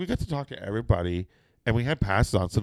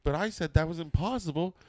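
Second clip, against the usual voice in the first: nervous; 9 semitones higher than usual. Retold or imitated. Nervous joke to Undertaker, high.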